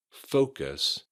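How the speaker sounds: "focus" with a clear O in the first syllable; careful "focus", opening on a full O; long O sound. Shown as a demonstration. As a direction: say "focus" with OH, never UH. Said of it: "with an O sound".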